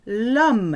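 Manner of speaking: L'homme run together as lum; one word. Shown as a demonstration. Teacher showing L'homme said as one word. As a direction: join l' and homme as one sound. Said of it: "it sounds like one word then".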